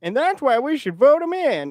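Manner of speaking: high, loud, slow mock redneck accent; a hammed-up redneck drawl, imitating a riled-up boomer. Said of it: "I don't know why I'm doing a redneck accent".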